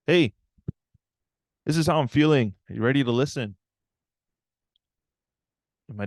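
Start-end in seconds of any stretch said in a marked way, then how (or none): 0.1-3.6 loud, higher confrontational demand; stomping mad. Retold or imitated. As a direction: storm in and challenge Dad, acted out. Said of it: "you know, stomping".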